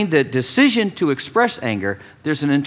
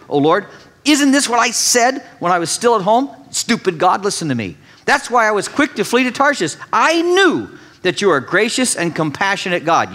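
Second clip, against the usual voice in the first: snide told-you-so, pitched higher; 4 semitones higher than usual. Retold or imitated. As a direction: sneer it at God like a sulky prophet. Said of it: "you get his "I told you so" tone".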